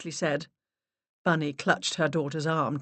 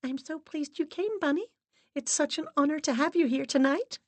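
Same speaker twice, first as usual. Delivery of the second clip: gushing; 11 semitones higher than usual. Acted. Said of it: "She almost giggled".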